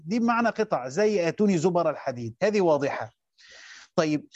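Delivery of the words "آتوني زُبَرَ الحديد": zubara al-hadid, b with fatha. Shown as a demonstration. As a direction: open the b in zubara. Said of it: "بفتح الباء". (زُبَرَ بفتح الباء)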